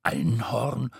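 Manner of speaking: low, halting guess; hesitant low-pitched stammering; fearful stutter. A narrator's reading. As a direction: stumble over the word, timidly. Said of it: "stotterte Tete".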